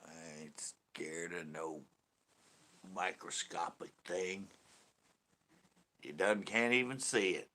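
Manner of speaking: slow southern drawl; mock-defiant southern accent, drawn out; put-on southern accent. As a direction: play it as a slow-talking Southerner. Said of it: "I put on the southern accent".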